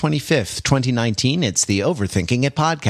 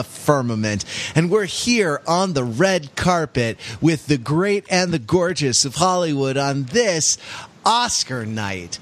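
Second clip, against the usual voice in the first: breathless awards-show host gush; gushing red carpet chatter; 3 semitones higher than usual. Pretend. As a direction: fawn over the stars like a red carpet host. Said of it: "I can't keep it up".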